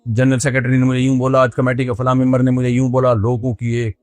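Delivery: low-key mock tale of woe; playing the victim. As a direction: imitate an imam reciting his grievances to everyone. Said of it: "مظلومیت کی داستان ہے، ہر ایک کے سامنے بیان کرتا ہے".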